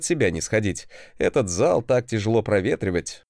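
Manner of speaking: lightly voiced stern professor; strict teacher. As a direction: scold and lecture mockingly. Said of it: "строгого преподавателя".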